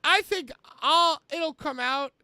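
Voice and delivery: emphatic theatrical read-aloud; Chris Jericho. Acted. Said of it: "This is Chris Jericho".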